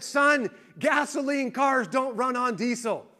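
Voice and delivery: hammed-up dad yelling it out slowly; mock exasperated shout. Dad scolds son on phone.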